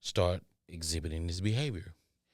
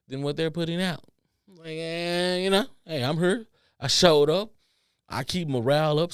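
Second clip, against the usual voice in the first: higher, pushy "I showed up" voice; mock entitled worker; 6 semitones higher, 5 dB louder than usual. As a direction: play the lazy worker demanding a raise.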